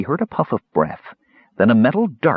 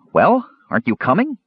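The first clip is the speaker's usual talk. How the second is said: impatient kender; 9 semitones higher than usual. A narrator's reading. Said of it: "Earwig asked".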